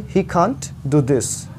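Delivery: very slow, can't with a half-aspirated k; slow model sentence. Shown as a demonstration. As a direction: spell the sentence out slowly. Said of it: "क और ख के बीच वाला sound".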